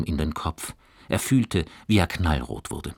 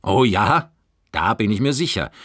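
chuckling; 4 semitones higher, 5 dB louder than usual. Acted. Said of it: "schmunzelte Herr Grundmann".

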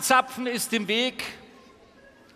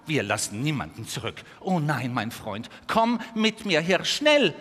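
calm vixen; 3 semitones lower than usual. Acted. Vixen calms, urges the stag.

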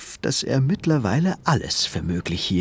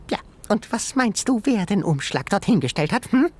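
high, teasing animal voice; tiny creature voice; 10 semitones higher than usual. A narrator's reading. Sengi teasing Ben about the envelope, high creature voice. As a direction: needle him like a cocky critter.

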